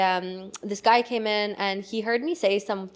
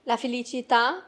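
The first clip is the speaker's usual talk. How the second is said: Italian word; 3 semitones higher than usual. Shown as a demonstration. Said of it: "That was Italian and French".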